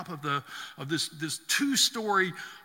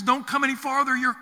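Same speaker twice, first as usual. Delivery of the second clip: raised, higher commanding voice of God; voice from the bush; 7 semitones higher, 4 dB louder than usual. Acted. God's voice from the bush warning Moses off, raised and commanding. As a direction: warn Moses back from holy ground, up high and loud.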